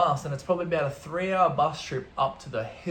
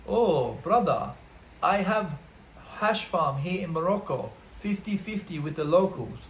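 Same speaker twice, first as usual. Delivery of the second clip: imitated Italian accent, slightly raised pitch; Luigi; 3 semitones higher than usual. Italian man confiding about his hash farm, mock Italian accent. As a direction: play a hammed-up Italian hash farmer. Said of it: "Luigi says to me".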